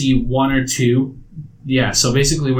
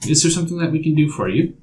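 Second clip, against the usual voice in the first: lightly voiced, slightly higher hostess; tea shop hostess; 3 semitones higher than usual. Game master as tea shop owner greeting players, lightly voiced hostess. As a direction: greet customers as a polite shopkeeper, lightly acted. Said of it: "The woman comes up and introduces herself".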